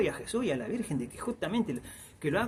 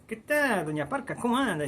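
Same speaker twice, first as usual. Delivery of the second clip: a lightly voiced young woman, pitched higher; higher-pitched young woman greeting Death; young native woman's voice; 6 semitones higher than usual. India greets Death in story.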